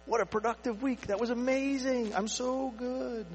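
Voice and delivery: slow, high, pleased with himself; mock self-satisfied boast; smug self-praise. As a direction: savor the brag like a proud achiever. Smug self-praise after busy week.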